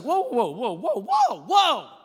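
rising to a high shouted whoa; mock Jesus shout. Jesus shouting whoa at his attackers. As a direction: shout it like Jesus catching the blow. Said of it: "And Jesus is like".

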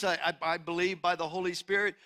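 ordinary talk, nothing marked

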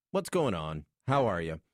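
put-on low-pitched Irish accent. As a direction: greet them as the Irish would. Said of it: "That's how they would say".

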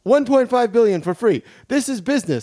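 put-on a light Queens-accented politician; smug dealmaking governor; Andrew Cuomo. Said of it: "Governor of New York State".

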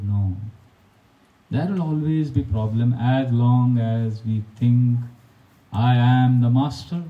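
slow, gentle and unhurried, a lightly voiced smiling teacher; calm smiling reply. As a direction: let it out slowly, as a patient elder. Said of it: "he smiled, he said".

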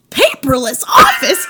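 slow, cautious stand-up question with a laugh; tight Jerry Seinfeld attempt. First timid try at a Jerry impression. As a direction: test the voice, barely committing. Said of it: "All right, I'm gonna try".

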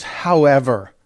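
a light put-on Scottish however; lightly imitating a Scottish accent; mock Scottish. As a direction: say However with a slight Scottish lilt. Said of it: "Listen to how he says".

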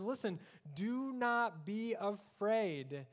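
God comforting his people; slow reassuring command. Acted. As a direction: speak God's comfort slowly. Voicing God's command slowly.

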